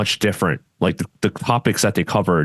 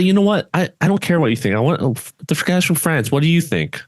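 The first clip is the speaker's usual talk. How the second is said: much higher, mocking the head referee's dismissive tone; 9 semitones higher than usual. Host mocking the head referee at the seminar, much higher mock voice. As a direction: parody a curt referee brushing off the room. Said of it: "He was like, he was like".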